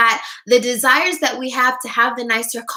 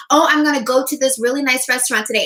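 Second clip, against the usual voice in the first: quick, lightly eager little quote; mock excited; faster than usual. To viewers, acting out a giddy inner urge, fast and mildly excited. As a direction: rattle it off like a happy plan. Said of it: "and it makes me so excited".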